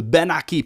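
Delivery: "Ben Aquí" with a B for the V; Puerto Rican pronunciation. Shown as a demonstration. Recalling the people they grew up around, "Ben Aquí" with B for V. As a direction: say "Ben Aquí" as ben-ah-KEE, hard B. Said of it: "they pronounce words differently".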